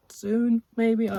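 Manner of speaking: high, loud, squeaky sing-song. Real, not acted. Dodging the viewers' question of when she'll read it, squeaky. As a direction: squeak it out as a playful dodge. Joking evasive promise to read.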